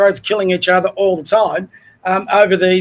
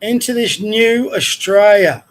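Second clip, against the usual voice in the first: slow, drawn-out mocking quote; scornful, stretched-out repeat; mocking echo; slower than usual. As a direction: parrot the phrase with drawn-out scorn. Mocking echo of the clip's phrase.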